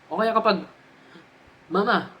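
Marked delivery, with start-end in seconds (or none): none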